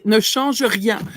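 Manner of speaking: "ne change rien" said slowly in proper French; careful French pronunciation. Shown as a demonstration. Host corrects co-host's French, careful and slow.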